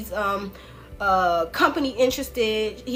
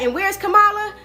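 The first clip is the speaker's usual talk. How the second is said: high, loud mock Trump, taunting; hammed-up Trump asking where she is; 10 semitones higher, 8 dB louder than usual. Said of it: "He's like".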